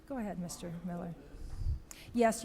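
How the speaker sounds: ordinary talk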